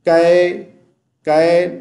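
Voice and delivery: कै as a flat "kae"; wrong open vowel. Shown as a demonstration. Teacher shows the mistake, कै as flat "kae". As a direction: say कै without any y glide. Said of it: "कैफा नहीं पढ़ना".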